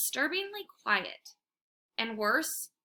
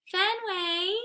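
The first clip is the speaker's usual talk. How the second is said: hopeful call; 9 semitones higher than usual. A narrator's reading. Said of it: "she calls in a hopeful voice".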